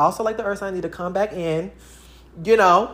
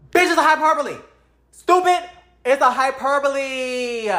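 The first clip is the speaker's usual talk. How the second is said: exasperated; 6 semitones higher than usual. Real, not acted. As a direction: throw the word back at them, exasperated. Exasperated rant at arguers.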